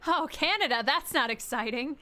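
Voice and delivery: mock her answer as a letdown, hammed-up; mock disappointed. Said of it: "didn't mean to be like".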